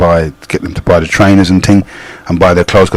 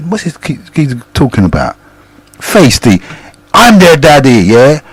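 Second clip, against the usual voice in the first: upset gang member; 4 semitones higher than usual. Retold or imitated. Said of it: "the guy was interviewing him, got really upset".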